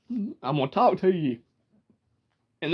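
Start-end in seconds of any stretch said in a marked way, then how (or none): 0.1-1.4 Georgia drawl with a long, stretched "talk"; Southern drawl. Shown as a demonstration. Demonstrating the Southern drawl to viewers. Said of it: "That's the Southern drawl".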